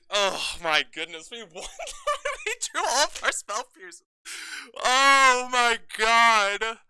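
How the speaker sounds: loud, high, laughing disbelief; shrieking jackpot winner. Real, not acted. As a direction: still buzzing from winning. Still celebrating the win.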